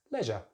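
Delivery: "leisure" as LEZH-uh; brief "leisure" with short e; British pronunciation. Shown as a demonstration. Teacher sticks with British English, "leisure" as LEZH-uh. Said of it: "stick with the short vowel sound".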